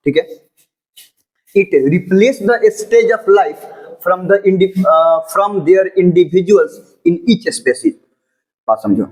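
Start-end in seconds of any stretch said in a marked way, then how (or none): 1.6-8.0 slow dictation. Acted. Teacher dictating notes to the class, slow and deliberate. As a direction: read out word by word, very slowly.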